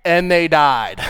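feisty. Shown as a demonstration. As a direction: deliver the punchline with a touch of cheek. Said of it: "I wanna read this feisty".

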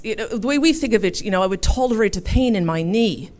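lightly imitating an English accent. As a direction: explain like an Englishman, lightly mocked. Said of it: "forgive my English accent".

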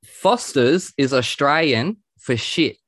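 slow Australian ad-tagline delivery; Aussie accent. Shown as a demonstration. Host feeds guest a parody slogan, slow Aussie accent. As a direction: drawl the Aussie slogan deadpan. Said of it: "in your best Aussie accent".

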